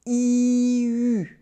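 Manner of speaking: E then U, lips pushing from a smile into a small circle. Shown as a demonstration. Teacher demonstrating E sliding into the French U. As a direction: glide from E into U by rounding the lips. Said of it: "pushing your lips in a small circle".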